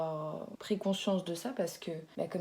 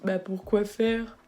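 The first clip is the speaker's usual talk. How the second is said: slow, louder imitation of a baffled colleague; quoted puzzled question; 5 dB louder, much slower than usual. Colleague asking about the truck, imitated drawn-out puzzlement.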